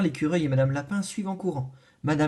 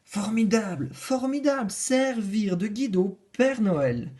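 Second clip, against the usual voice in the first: delighted; 4 semitones higher than usual. Acted. Animals thrilled for the mouse.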